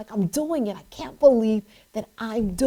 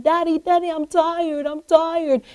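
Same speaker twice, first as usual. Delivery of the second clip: lightly voiced child whining, higher pitched; higher-pitched plea of a worn-out girl; tired young daughter; 4 semitones higher than usual. Daughter pleading tiredness to her father at a race, lightly voiced whine. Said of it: "I heard her saying".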